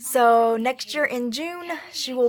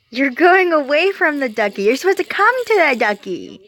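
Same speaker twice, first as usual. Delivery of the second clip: high, loud sing-song coaxing; 5 semitones higher, 9 dB louder than usual. Real, not acted. Coaxing baby toward toy.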